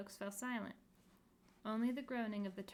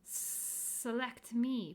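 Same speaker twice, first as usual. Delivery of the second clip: promising; 2 semitones higher, 4 dB louder, much slower than usual. Acted. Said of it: "promised another".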